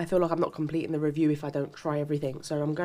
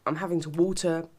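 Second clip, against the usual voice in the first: mouth burning from hot sauce. Real, not acted. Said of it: "My mouth is still burning".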